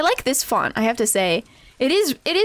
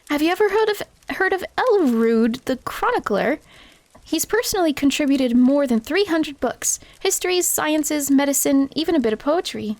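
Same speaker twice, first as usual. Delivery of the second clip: Gwyneth voice. Acted. Gwyneth's bookish voice.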